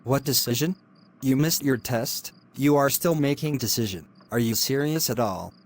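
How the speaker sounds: cold, hushed threats from a lecturer; menacing hushed scolding. Acted. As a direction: keep it under your breath and menacing.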